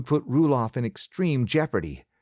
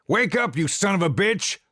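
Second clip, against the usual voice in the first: desperate yelling; 8 semitones higher than usual. A narrator's reading. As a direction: shake him awake with your voice. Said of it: "Pa kept yelling at Josiah".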